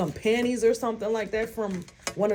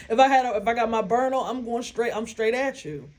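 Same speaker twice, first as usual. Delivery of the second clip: laughing through the words; chuckling at her own tough talk; half-laughing boast; 2 semitones higher, faster than usual. Real, not acted.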